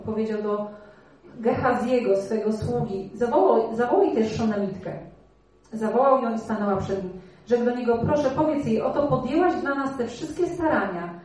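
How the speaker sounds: measured, slightly lifted reading of the Bible story; scripture reading. Acted. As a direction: read it as a story to the congregation. Reads the Bible passage aloud. (czytanie Pisma Świętego na głos)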